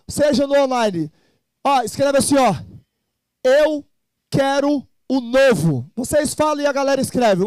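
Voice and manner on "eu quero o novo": slow, spaced-out words; word-by-word slogan. Shown as a demonstration. Host dictates a slogan to viewers, slow emphatic delivery. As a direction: set each word apart for people to copy.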